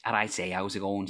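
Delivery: casual Scouse greeting; quick dip into Liverpool Scouse; Scouse accent. Shown as a demonstration. Host repeats the phrase he starts with, Scouse accent. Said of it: "If I'm gonna do Scouse".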